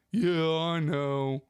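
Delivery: drawn-out, slow mock admission; resigned nephew. Nephew answering about his heavy breathing, mock resigned. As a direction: imitate a slow, resigned reply. Acting nephew's weary reply to being teased.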